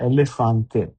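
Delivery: এলিফ্যান্টে said as Italian elefante, e-le-FAN-te; teacher models এলিফ্যান্টে for students; Italian word demo. Shown as a demonstration. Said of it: "এ, এতে এলিফ্যান্টে".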